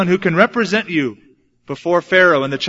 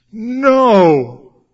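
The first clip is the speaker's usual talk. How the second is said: put-on loud, high child's no; scared refusal; 6 semitones higher, 7 dB louder than usual. Boy refuses his dad's plea, loud and high. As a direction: refuse in a frightened wail. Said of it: "And I'm going".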